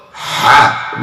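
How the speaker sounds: "Ha" from the middle of the throat; a tighter mid-throat "Ha". Shown as a demonstration. Teacher showing the middle-throat letter. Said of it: "Now it's from the middle".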